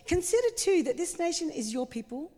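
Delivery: a light touch of sarcasm, retold; tongue-in-cheek, pointedly reminding God; sarcastic. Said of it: "I can almost hear the sarcasm".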